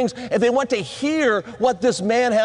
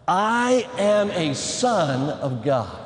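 slow, lower-pitched declaration; leading a recitation; 4 semitones lower, slower than usual. Shown as a demonstration. Preacher has the guys repeat after him, slow recitation. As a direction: spell it out slowly for others to repeat. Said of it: "One more time".

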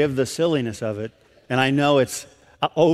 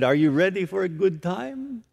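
softer imitated Romanian accent; 3 semitones higher, 4 dB quieter than usual. Rodica recalling what the preacher said, Romanian accent. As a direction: quote it gently with a Romanian lilt. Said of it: "she says in this unique accent".

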